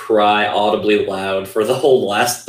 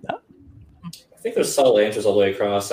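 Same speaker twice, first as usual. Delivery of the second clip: whispering. Real, not acted. Soft wrap-up comment.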